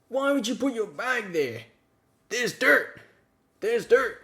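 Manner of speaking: mocking a fussy friend complaining about dirt. Mimicking friend's fuss over dirt.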